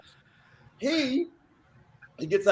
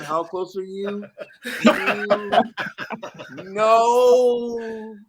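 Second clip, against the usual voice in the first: a hint of a singer asking slowly; a singer impression; much slower than usual. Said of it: "like Michael Jackson".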